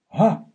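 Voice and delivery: ГА as a strong voiced h; украинское «г». Shown as a demonstration. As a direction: push out a loud ГА like Ukrainian h. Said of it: "как украинское". (громкое «га» по-украински)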